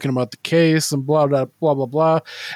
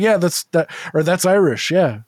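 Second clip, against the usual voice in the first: mock boastful comedian, higher and louder; Andrew Santino; 4 semitones higher, 5 dB louder than usual. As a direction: imitate a comedian bluffing through accents. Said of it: "his fucking fake, stupid impersonations".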